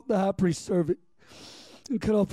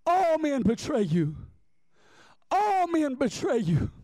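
higher, anguished cry to God; retold weeping prayer; 6 semitones higher than usual. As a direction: cry it out in re-lived grief. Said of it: "I wept, Roger".

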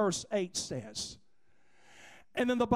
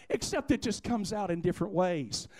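ordinary talk, nothing marked

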